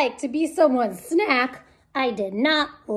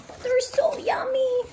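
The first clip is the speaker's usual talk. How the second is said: a sly unvoiced whisper; 9 semitones higher, 5 dB quieter than usual. Penelope confessing to herself she craves children, whispered. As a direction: whisper the secret craving. Secret craving aside.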